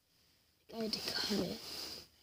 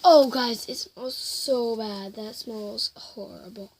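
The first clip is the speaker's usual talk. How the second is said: grossed out by the stench; smelling something awful; 2 semitones lower, 6 dB louder than usual. Real, not acted. Reacting to the slime's smell.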